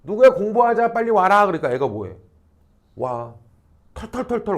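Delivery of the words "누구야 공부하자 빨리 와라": lightly voiced mother calling; mother calling child. Mother calling her child to study, lightly acted calling. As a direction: call the child over to study, a little raised. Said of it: "근데 엄마가".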